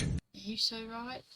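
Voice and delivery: soft imitation Australian accent. Shown as a demonstration. Streamer recalling how they say things, mock Australian accent. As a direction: try out an Australian turn of phrase, accent and all. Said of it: "how else they say things".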